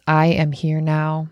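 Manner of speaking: slow, measured mantra; breathing affirmation. Shown as a demonstration. Coach guiding the breath in through the nose, slow affirmation. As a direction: count it out slowly, one word per beat. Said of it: "So it's in through the nose".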